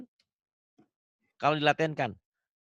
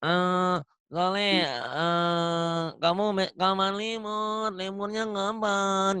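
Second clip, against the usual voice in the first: nasal voice imitation; 4 dB quieter, much slower than usual. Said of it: "Bindeng agak-agak gitu".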